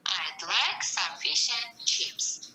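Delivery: would reduced to an unstressed d in I'd like, slowly; slow, with would shrunk to a light d; weak form. Shown as a demonstration. Teacher repeating the weak form for the class, unstressed would. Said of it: "Would is here unstressed form".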